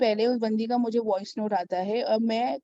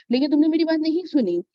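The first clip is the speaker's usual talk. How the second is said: गुस्से में डांटना; 5 semitones higher, 4 dB louder than usual. Retold or imitated. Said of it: "मुझे इतना गुस्सा आया".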